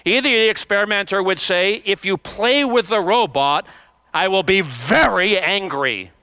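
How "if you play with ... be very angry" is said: firm warning, "very" pressed; quite firm. Retold or imitated. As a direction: say it like a stern experimenter. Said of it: "and said quite firmly".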